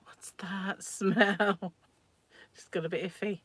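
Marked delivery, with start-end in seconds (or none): 0.0-1.7 very slow, stretched-out question; hammed-up sniffing suspicion, half laughing; mock puzzled disgust. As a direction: draw it out with amused distaste. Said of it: "I thought".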